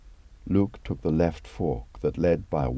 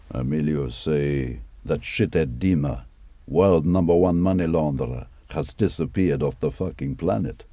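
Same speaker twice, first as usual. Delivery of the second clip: gruff Russian retelling, slightly louder; Russian accent; 5 dB louder than usual. Retold or imitated. Dima telling Luke what Emilio said, Russian accent. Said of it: "And Emilio says?".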